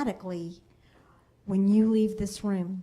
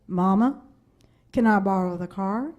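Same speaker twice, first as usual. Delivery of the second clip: imitating teen; 5 dB louder than usual. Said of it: "it grows into".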